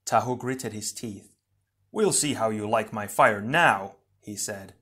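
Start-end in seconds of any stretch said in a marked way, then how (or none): 1.9-4.0 louder, mildly furious challenge; a touch of battle fury; angry threat. Acted. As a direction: throw down a heated threat. Enraged hero threatens attacker.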